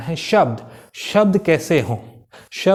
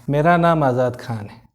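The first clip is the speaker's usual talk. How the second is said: right speed; 3 semitones lower than usual. Shown as a demonstration. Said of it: "ये speed था जो सामने वाला समझ जाए".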